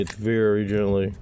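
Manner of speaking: slow, stressed "very gently"; insistent, stretched-out "very" in "very gently"; emphatic very gently. Real, not acted. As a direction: lean on "very" and draw it out before "gently". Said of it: "When I say very gently".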